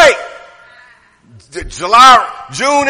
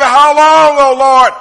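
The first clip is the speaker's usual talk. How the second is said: pleading cry; 5 semitones higher than usual. Retold or imitated. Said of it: "felt like David".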